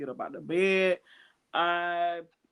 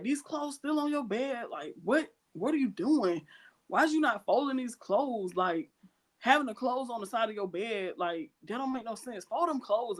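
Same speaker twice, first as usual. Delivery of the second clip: higher-pitched nagging mom voice, lightly played; imitating mom fussing about the clothes; scolding mama; 5 semitones higher than usual. Mom nagging her daughter to fold the laundry, scolding.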